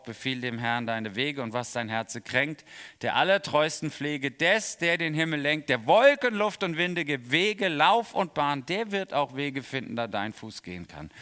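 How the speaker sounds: chanted hymn lines, building up then fading out; solemn hymn verse recitation; hymn recited. Pretend. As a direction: recite like a hymn, swelling on Wolken. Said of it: "sing das dann".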